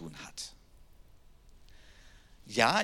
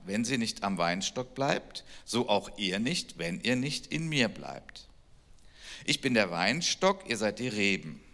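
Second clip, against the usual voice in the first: scripture reading; 2 semitones lower than usual. Acted. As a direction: read the passage aloud like a reverent lesson. Reads John 15 aloud.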